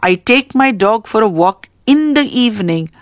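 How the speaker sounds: quick start, then weight on IN THE EVENING; stress on IN THE EVENING. Shown as a demonstration. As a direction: lean on the closing words in the evening. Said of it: "The highlighted words are in the evening".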